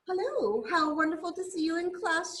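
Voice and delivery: high, quick storybook chirp. A narrator's reading. Bird greets Rocket arriving in class, chirping. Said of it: "she chirped".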